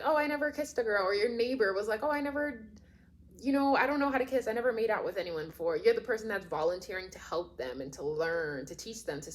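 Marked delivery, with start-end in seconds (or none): 0.0-5.8 higher mock timid boy voice; shy boy. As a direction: play the nervous, inexperienced little brother. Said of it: "your best friend's little brother was like".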